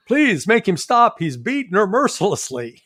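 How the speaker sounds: high, loud mock-distressed plea; mock pleading. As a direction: beg like a hammed-up caller to a hotline. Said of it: "They're gonna be calling the child abuse hotline".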